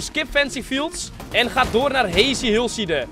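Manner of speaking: normal talking voice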